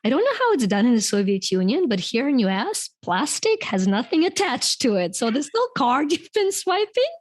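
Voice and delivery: imitating her husband, patronizing and amused; mock-patient husband explaining, laughing through it; wife quoting her husband's gentle put-down. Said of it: "my husband was like".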